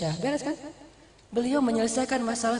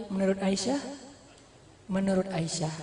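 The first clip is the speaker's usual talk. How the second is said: calm reply; 5 dB quieter than usual. Acted. Prophet's calm reply to wife.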